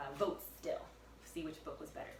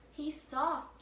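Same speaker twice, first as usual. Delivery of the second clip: put-on eager girl voice; 9 semitones higher, 4 dB louder than usual. Annie voiced, excited.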